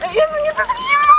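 very high shriek at icy water; cold shriek. Real, not acted. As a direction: squeal from the freezing shock. (przeraźliwy pisk z zimna)

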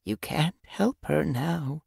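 slow, gentle comforting mew; mewed softly. A narrator's reading. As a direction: ease the young one away, slowly. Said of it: "Little Bird mewed softly".

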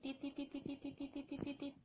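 soft, even string of beeps; beeping noise. Pretend. Streamer playing with viewers, imitating beeps. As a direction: repeat "tit" like a little beeper.

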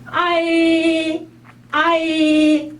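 아이 slowly, weight on 아; long 아이 leaning on 아; stressed a in ai. Shown as a demonstration. Teacher contrasting 아이 with 아오, 아 stressed. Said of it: "아의 강세가 좀 붙었거든요".

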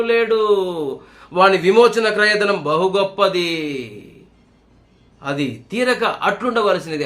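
slow, measured reading of the verse; scripture reading. Acted. Preacher reading a psalm to the congregation, slow and measured. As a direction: read it out slowly as holy words.

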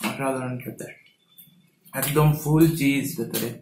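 speaking between bites; chewing while talking. Real, not acted. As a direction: mouth partly full of food. Seen 0: Woman bites pizza at -3, then talks with chewing mouth movements.

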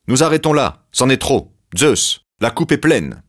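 loud, high outrage; the brothers quitting in protest; indignant protest. Acted. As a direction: throw down the gauntlet. Brothers rebel against cheating.

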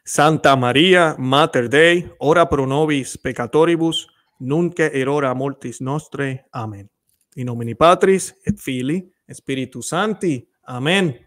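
slow, solemn recited prayer; Latin prayer. Real, not acted. Host finishing the Hail Mary for viewers, solemn recitation. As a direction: close the prayer devoutly.

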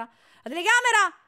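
loud high cry of alarm. Real, not acted. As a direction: shout it in a panic. Alarmed cry about camera. (grido allarmato)

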